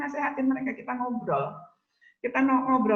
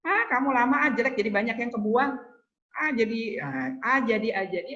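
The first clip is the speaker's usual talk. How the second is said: impatient parent; 3 semitones higher than usual. Retold or imitated. A parent grumbling at a child peeling onions, impatient mock scolding.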